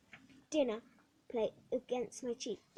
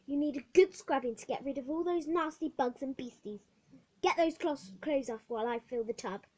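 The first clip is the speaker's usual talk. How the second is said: louder, brisk command; bossy matron; 7 dB louder than usual. Acted. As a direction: order her about briskly. Matron gives orders.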